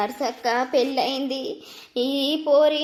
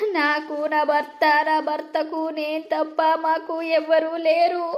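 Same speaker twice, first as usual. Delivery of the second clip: crying. Acted. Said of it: "అత్తమ్మ ఏడవకు".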